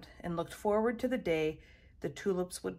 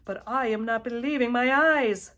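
loud, higher-pitched amazement; gulping disbelief; 4 semitones higher, 9 dB louder than usual. A narrator's reading. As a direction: build to a loud, disbelieving finish. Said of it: "gulped her husband".

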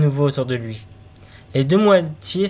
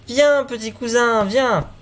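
slow, higher call to the coffin; 7 semitones higher, slower than usual. Acted. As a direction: beckon the dead cousin aloud, drawn out. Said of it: "et s'écria". (appel lent et aigu vers le cercueil)

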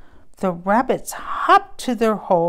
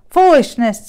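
a touch of a scornful goat, louder and higher; grumpy goat; 5 semitones higher, 11 dB louder than usual. Acted. Goat scoffs at pig's snow tree, mild grumpy. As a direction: bark it out like a cranky goat.

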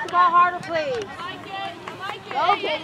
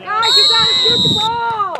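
shouting; 4 dB louder than usual. Real, not acted. Coach yelling at youth soccer.

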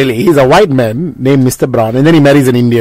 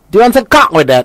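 higher-pitched Newcastle server; Newcastle accent; 5 semitones higher than usual. Retold or imitated. Counter lady taking an order, Newcastle accent. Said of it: "The best is still Newcastle".

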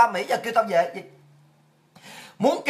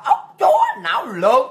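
sudden yelled insult; 2 semitones higher, 4 dB louder, slower than usual. Real, not acted. Insults the communist party.

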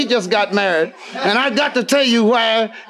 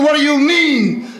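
incredulous shout; 5 semitones higher than usual. Retold or imitated. Shocked reply to drunk friend.

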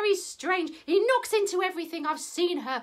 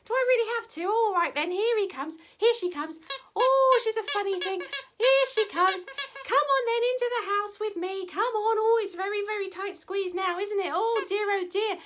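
lightly voiced old lady, pitched up; fretting old lady; 4 semitones higher than usual. Old lady ushers the hen indoors, fretting. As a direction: fuss along in a higher old lady voice.

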